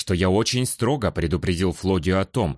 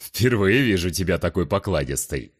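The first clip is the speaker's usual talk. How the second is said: teasing warrior. Acted. Giant warrior teases.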